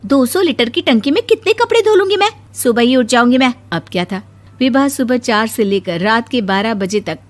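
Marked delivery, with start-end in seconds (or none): 0.1-3.5 indignant protest. Acted. Angry bride protests timing.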